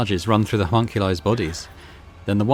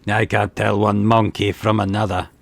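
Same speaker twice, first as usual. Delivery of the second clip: a hint of a smug, sneering xenos, a touch slower; mocking grin; slower than usual. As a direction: smile through the insult. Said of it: "A broad, repulsive grin".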